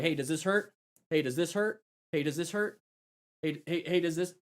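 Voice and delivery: soft questions lifting at the end; quiet, rising "does this hurt?"; gently checking on someone. Shown as a demonstration. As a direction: check softly for pain, spot by spot. Demonstrating questions to injured rider.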